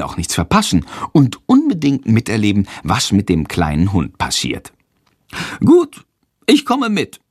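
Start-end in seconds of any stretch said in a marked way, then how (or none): 5.6-7.2 high bat voice giving in. A narrator's reading. Little bat Sándor finally agreeing to fly along. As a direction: squeak out a reluctant yes. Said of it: "sagt er schließlich".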